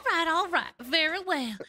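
a lightly posed British aristocratic goddess. Acted. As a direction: play a haughty British noble goddess, lightly. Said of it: "Full British aristocracy".

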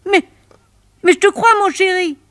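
high, fast imitation of his breezy answer; mock lover's reply. Woman mimicking her lover on the phone, high mock voice. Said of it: "que tu me dis".

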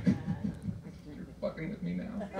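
slow, breathless laughing mutter; wheezing laugh aside. Real, not acted. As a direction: disbelief through laughter.

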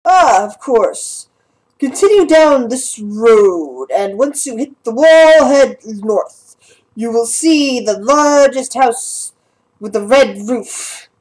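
lightly voiced obliging guard, slow; town guard. Guard giving directions to the party, lightly voiced town guard. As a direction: give directions slowly, stretching the key words.

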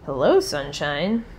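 slow, dry mock greeting to a gloomy person; sarcastic. Shown as a demonstration. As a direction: tease a grump with a flat hello. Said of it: "you're being sarcastic".

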